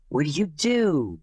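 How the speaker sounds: slow, curious asking; slow question. Retold or imitated. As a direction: ask it slowly and plainly. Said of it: "everybody's asking him".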